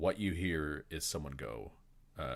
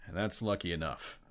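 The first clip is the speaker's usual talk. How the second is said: a burst of loud exclamation that forgets to whisper; too loud; slower than usual. Retold or imitated. Vorji forgets the whispered talk with the innkeeper, loud blurt. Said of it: "he realizes how loud he just was".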